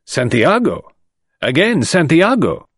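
two officials exclaiming in shock; stunned exclamation. A narrator's reading. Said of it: "the magistrate and the commissary exclaimed".

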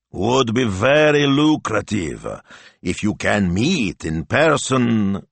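butter him up sweetly and slowly; ingratiating pitch to a famous man; pleasant wheedling. Acted. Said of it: "made his voice pleasant now, wheedling".

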